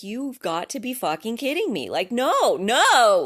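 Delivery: yelling loud and high, exasperated; furious outburst. Retold or imitated. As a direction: lose it at the computer, shouting. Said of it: "I just really was like".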